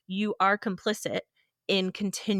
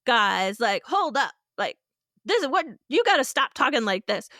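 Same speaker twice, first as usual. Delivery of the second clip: mock loud intervention; 4 semitones higher, 5 dB louder than usual. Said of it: "be like".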